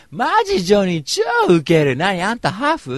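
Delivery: high, loud imitation of a brash girl; loud-voiced party girl. Party girl bursting into the event, loud imitation. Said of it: "やたらと声がでかい".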